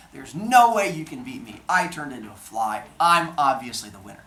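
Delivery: loud, smug bragging; gloating. Acted. Zeus as a fly bragging to Metis, loud and smug. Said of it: "He's like".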